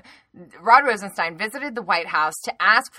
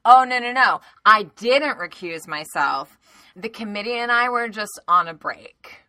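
mocking Nunes; 3 dB louder than usual. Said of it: "come out and say, like".

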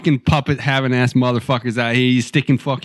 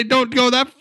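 a hammed-up, much higher nagging therapist voice; higher, squeaky mock nag; mock scolding therapist; 9 semitones higher than usual. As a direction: play the fussy therapist scolding the patient. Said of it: "and say".

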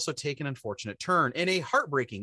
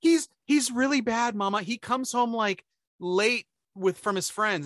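mock whining daughter; 5 semitones higher, slower than usual. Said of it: "she's crying to her mother".

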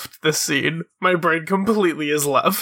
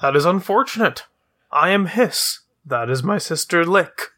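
quick snake man voice; 3 semitones higher than usual. Acted. Hiss introduces himself.

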